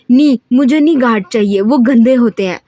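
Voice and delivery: loud, bratty yell; screaming. Acted. Haram screams at her father that guards are dirty, loud. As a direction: scream it while throwing things. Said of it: "चीख कर बोली".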